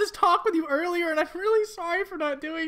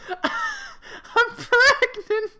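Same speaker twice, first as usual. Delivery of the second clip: hesitant reveal; 10 semitones higher, 3 dB louder, much slower than usual. Acted. Judy reveals pregnancy.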